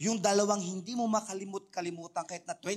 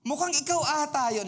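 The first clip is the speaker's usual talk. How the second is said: higher and louder, teasing the congregation; a bright, raised, playful tease; playful teasing call; 9 semitones higher, 5 dB louder than usual. Shown as a demonstration. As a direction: point at your neighbour and tease them out loud. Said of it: "Tingnan mo yung katabi mo".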